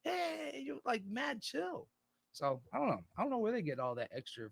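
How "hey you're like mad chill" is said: high, drawn-out mock mellow greeting; mellow and chill. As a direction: imitate someone laid-back, stretching the words slowly. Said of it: "mellow and".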